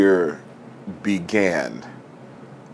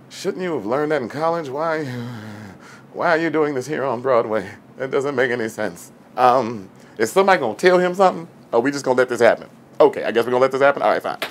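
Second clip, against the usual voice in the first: exasperated critic; 3 semitones higher, faster than usual. Retold or imitated. Mocking an actor on Broadway.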